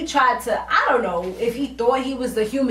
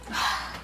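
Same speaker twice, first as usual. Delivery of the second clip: heavy sigh; 9 dB quieter than usual. Acted. Reacting to retold wrong words.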